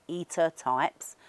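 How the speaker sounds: slow and careful. Shown as a demonstration. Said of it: "'cause my Cockney accent".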